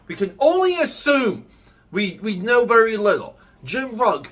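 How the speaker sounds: loud, high, worked-up rant; wild unhinged ranting. Real, not acted. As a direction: rant it at full heat. Heated rant about Ed Piskor.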